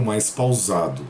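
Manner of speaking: slowed, deliberate pacing; slow and measured, to be understood. Real, not acted. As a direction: ease off the pace and space the words out. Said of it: "me policiar em falar um pouco".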